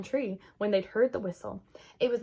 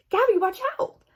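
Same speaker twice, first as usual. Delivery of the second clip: high, loud warning shout; urgent warning; 13 semitones higher, 8 dB louder than usual. Acted. Mia shouting a warning to Gabby. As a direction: yell to stop her in time.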